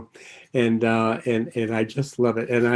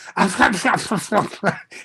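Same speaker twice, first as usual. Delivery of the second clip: put-on drunken mumble; 7 semitones higher than usual. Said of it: "he was so drunk he could not even talk".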